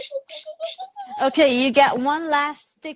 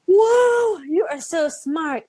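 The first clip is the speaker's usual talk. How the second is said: excited praise; 5 semitones higher, 4 dB louder than usual. Real, not acted. Praising a child loudly.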